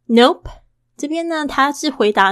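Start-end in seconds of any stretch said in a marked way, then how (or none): 0.1-0.5 cheeky casual "Nope" with a bounce; breezy playful refusal. Shown as a demonstration. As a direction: toss off "Nope" lightly and playfully. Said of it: "他怎么会那么俏皮的".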